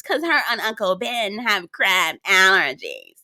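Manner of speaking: slow, drawn-out mimicry of a castmate; mocking imitation. Mimicking a castmate's excuse about Uncle Ben, mocking imitation. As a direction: lightly mimic her, dragging the words out. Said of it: "how does she talk like this".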